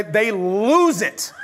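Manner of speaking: slow, words dissolving into laughter; laughing. Real, not acted. Preacher retelling the prank, laughing through the words. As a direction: laugh through it as you tell it.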